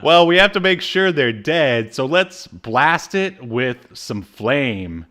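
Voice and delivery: lightly voiced crew member, slowed on the second half; hammed-up henchman logic; mock character voice. Podcaster mimicking the cartoon crew, mock voice. Characters deciding to blast glacier.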